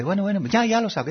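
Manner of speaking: amused okay-okay; good-natured giving in. Pretend. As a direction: give in cheerfully after a joke. Person accepts joking correction.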